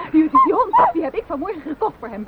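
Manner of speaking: stammering, laughing nervously through the words. Acted. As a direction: laugh it off nervously while confessing. Wife nervously explains the dog.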